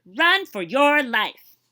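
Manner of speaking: slow, loud, high urging; urgent warning. Acted. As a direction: draw it out, pleading them to run. Deer warn the tiger.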